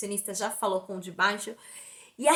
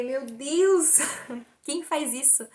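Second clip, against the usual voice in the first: higher, awed exclamation with a laugh; amazed; 4 semitones higher, much slower than usual. Retold or imitated. Patient stunned by the doctor's generosity, amazed. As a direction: marvel at it, drawing out the question. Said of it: "eu já fiquei admirada, abismada".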